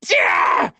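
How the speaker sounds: low shouted yeah; hammed-up low shout; mock cheer. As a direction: bellow it like a sports fan. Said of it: "I'm just in there like".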